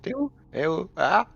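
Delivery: high playful calling out. Pretend. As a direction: call out looking for him.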